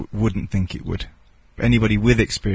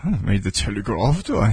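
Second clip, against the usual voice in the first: dry, scornful put-down; contemptuous; 4 semitones lower, 3 dB quieter than usual. Real, not acted. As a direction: sneer at the very idea. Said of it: "The contempt in the speaker's voice".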